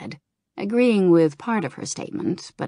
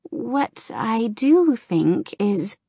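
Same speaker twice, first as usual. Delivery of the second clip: slow, searching words, voice higher; hesitant Kirigosa; 5 semitones higher, much slower than usual. Acted. Kirigosa hunting for a comforting answer, slow and hesitant. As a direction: weigh each word, unsure.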